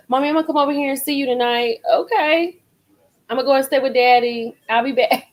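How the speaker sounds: put-on breezy teen announcing her plans; imitating her daughter. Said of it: "'cause she'll just come over here".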